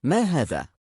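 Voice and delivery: a king startled by bland food, mild outcry; displeased exclamation. A narrator's reading. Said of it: "وصاح باستياء".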